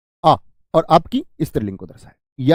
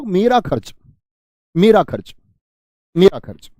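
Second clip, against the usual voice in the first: मेरा खर्च repeated, growing louder each time; drilled model phrase; 2 semitones higher, 5 dB louder than usual. Shown as a demonstration. Teacher drilling the correct phrase for students, building louder. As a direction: drill it, pressing harder on मेरा every time. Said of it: "तो बोलो".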